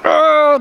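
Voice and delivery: high mock grunt of effort; straining groan. Helper pushing back the Jeep with a splinted hand, straining groan. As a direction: groan as if shoving a heavy weight.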